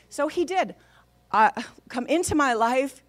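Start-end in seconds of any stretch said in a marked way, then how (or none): 1.9-3.0 firm prayer line left open with a rise; leading a prayer. Retold or imitated. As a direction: lead it for someone to repeat. Husband leads a prayer line.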